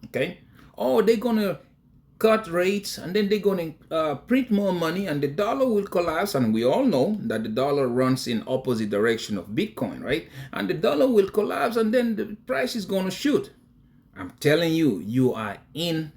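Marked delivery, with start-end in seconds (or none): 0.8-6.3 high, singled-out parroting voice; mocked hype theory. Presenter mimics those pushing the rate-cut theory, high and mocking. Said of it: "this is the theory that they are". 10.5-13.5 high, singled-out parroting voice; mocked hype theory. Presenter mimics those pushing the rate-cut theory, high and mocking. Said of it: "this is the theory that they are".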